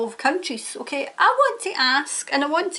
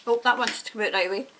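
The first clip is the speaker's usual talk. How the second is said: normal talking voice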